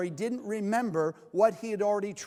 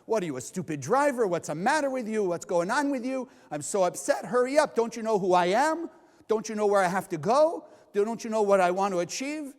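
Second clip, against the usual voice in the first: imitating a fed-up driver ranting; road rage rant. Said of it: "anger comes right out".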